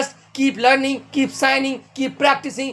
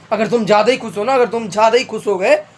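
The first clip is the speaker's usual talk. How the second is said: laughing; faster than usual. Real, not acted. Teacher laughing about being too happy.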